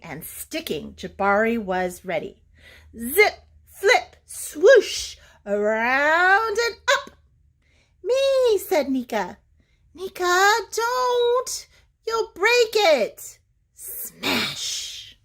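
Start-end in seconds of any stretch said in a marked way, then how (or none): 3.0-7.2 lively sound words. A narrator's reading. Narrating machine sound effects. 8.0-8.6 put-on high, loud little-girl "Me"; little sister begging to join in, high and loud; eager little Nika. Younger sister pleading to her big brother, high loud voice. 9.9-13.4 alarmed warning. Acted. Jabari warns sister.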